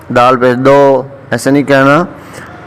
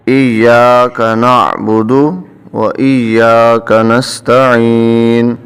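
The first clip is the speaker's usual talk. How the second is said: very slow tajweed chant; Quranic recitation; much slower than usual. Shown as a demonstration. Teacher introduces the verse, slow chanting. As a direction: recite it slowly.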